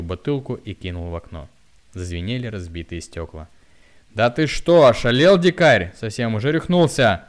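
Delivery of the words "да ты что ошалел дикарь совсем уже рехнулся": very loud, high terrified shriek. A narrator's reading. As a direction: shriek at him in panic. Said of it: "завизжала тётя Любава". (визг)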